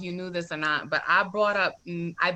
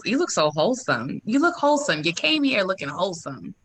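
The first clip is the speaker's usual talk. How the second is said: louder, rising, hyping her up; hyped compliment; 4 dB louder than usual. Real, not acted. Host gushing to guest about her look, excited and loud. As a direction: gush over how wholesome she looks.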